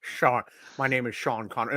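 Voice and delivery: put-on low, soft Scottish-accented Russian commander; Sean Connery. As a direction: play a submarine captain with a deep Scottish burr. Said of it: "best Scottish Russian accent".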